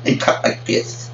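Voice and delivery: slow breathy lisping voice, barely voiced; a lightly done lisp impression; lisping demo. Shown as a demonstration. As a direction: show off the lisp they mimic, slowly. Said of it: "this is how some of these brothers talk".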